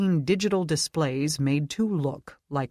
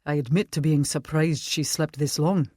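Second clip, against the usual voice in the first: put-on Scottish accent. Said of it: "colored with a Scottish accent".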